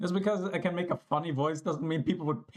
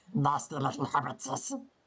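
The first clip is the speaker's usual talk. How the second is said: put-on creepy creature voice, pitched lower; 3 semitones lower than usual. Joking that the voice sounds more like Gollum: Gollum voice. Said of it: "I feel like I sound more like Gollum".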